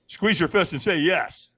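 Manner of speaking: slow, firm coaching order; slow it down like a coach at the fire; trainer's firm command. Retold or imitated. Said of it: "the trainer goes".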